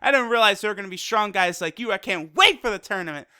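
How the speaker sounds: lightly imitated happy eagerness; quick retold quote with a touch of excitement; happy, eager. Goku to Toppo before the tournament, lightly happy and eager. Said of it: "he's super happy".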